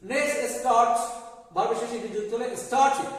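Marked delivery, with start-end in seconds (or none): 2.6-3.1 স্টার্টেড said "star-tid"; short i closing স্টার্টেড; correct -id ending. Shown as a demonstration. Teacher adds ed to start, স্টার্টেড ending in -tid. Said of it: "আমরা বলি".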